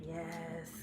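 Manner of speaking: lightly voiced, drawn-out evil queen. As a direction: slowly relish it, a hint of villainess. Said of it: "the evil queen".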